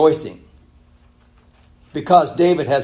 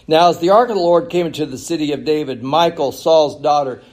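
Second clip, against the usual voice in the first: raised, projected Bible reading; scripture reading; 3 semitones higher, 6 dB louder, faster than usual. Acted. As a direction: read scripture out fast and loud to the congregation. Reads scripture aloud.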